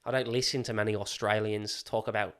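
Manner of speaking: out-of-practice Australian accent. Shown as a demonstration. Admitting it may slip, attempted Australian accent. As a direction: hang on to a wobbly Australian accent. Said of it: "So I might lose it".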